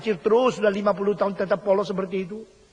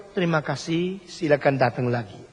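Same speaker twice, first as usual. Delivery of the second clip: mock rote greeting; 5 semitones lower than usual. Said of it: "Kalau bilang terima kasih".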